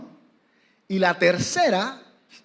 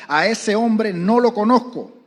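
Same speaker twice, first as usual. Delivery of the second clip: slow, loud retold shout; shouted denial; 5 semitones higher, 7 dB louder, slower than usual. Peter swearing to the crowd, slow loud shout. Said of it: "echarse maldiciones y encima les volvió a jurar".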